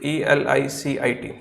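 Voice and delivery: letters spaced out one by one; slow spelling. Shown as a demonstration. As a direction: spell it out for the class. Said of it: "एक और word लिखते हैं इलिसिट".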